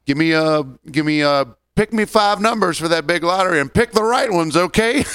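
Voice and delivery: a lightly voiced cheerful customer; mock customer voice. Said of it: "I hear another person go".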